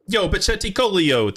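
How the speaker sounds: high, lilting mock Italian accent. Streamer greets new follower by name in an Italian accent. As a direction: say the name with playful Italian flair. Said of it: "I said that in Italian accent".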